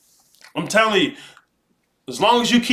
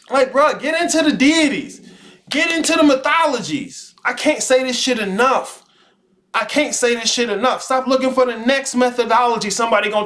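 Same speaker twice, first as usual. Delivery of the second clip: fired-up urging; 5 semitones higher than usual. Real, not acted. Streamer hyping his chat, fired-up and high. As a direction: pump them up like a friend.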